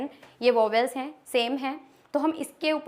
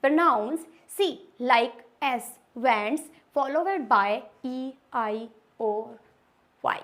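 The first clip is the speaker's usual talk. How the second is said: slow rule reading; much slower than usual. Shown as a demonstration. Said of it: "rule number six क्या कहता है".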